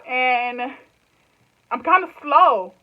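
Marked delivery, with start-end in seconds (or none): 1.7-2.8 laughing at herself. Real, not acted.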